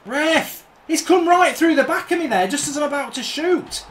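high, indignant appeal to the referee; protesting to the ref. Real, not acted. Gamer yelling at the ref over a foul, indignant.

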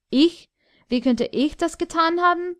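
the dwarf feigning surprise at the king's charge; feigned astonishment. Acted. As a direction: play the innocent, wide-eyed.

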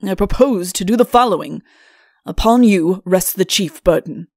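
loud, pompous royal declaration; self-important monarch taking charge; imperious king. Acted. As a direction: pronounce it forcefully, as a king.

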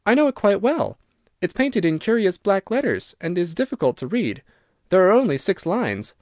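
lightly voiced earnest girl; eager young Virginia.

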